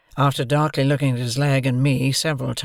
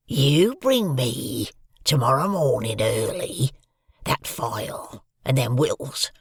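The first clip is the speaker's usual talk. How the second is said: fearful convict threat. A narrator's reading. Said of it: "in these fearful terms".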